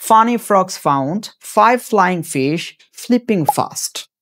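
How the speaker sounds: very slow, every f-sound drawn out, "Funny frogs found five flying fish flipping fast"; very slow tongue twister. Shown as a demonstration. Teacher slowly demonstrating the tongue twister, very slow. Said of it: "সেটা কি".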